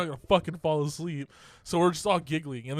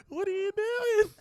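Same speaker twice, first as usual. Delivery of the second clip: put-on girls calling out. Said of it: "they're like".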